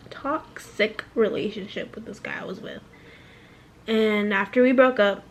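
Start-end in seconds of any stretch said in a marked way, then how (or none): 0.1-2.8 soft whisper; whispered aside. Real, not acted. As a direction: whisper the painful part.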